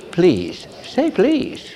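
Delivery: soft, high coaxing please; sweet gentle please. Retold or imitated. Preacher coaxing the cursing couple, sweet soft. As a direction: coax them sweetly. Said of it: "I said".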